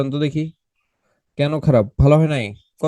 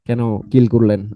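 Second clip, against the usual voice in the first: mock annoyed student; 8 semitones lower, 3 dB quieter than usual. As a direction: whine it like a fed-up pupil. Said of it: "তারা বিরক্ত হচ্ছিলেন যে".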